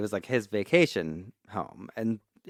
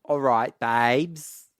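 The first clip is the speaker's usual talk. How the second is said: put-on Yorkshire accent; 3 dB louder, much slower than usual. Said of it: "Strong Yorkshire accent required".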